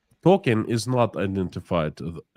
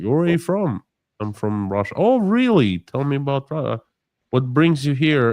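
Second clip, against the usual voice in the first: much higher, louder mock-enthusiastic questions; eager small talk; 5 semitones higher, 3 dB louder than usual. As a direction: play the overly delighted stranger in the elevator. Acted friendly American elevator chat.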